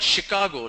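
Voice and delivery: Chicago starting "sh"; standard Chicago. Shown as a demonstration. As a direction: say Chicago as "shi-KAH-go". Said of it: "There is a place called".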